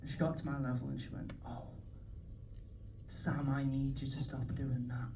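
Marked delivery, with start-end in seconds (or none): 1.5-5.1 soft, low and slow plea; mock-concerned mum. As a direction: lightly voice a mum gently pleading with her child. Voicing concerned mum after confession.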